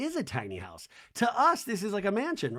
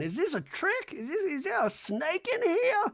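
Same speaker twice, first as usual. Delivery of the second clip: put-on suspicious old lady; 13 semitones higher than usual. Reba suspicious of gift.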